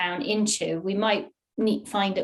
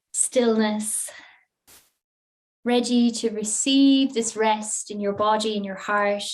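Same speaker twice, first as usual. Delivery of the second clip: guided relaxation. Real, not acted. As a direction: ease them into rest, leaving long pauses.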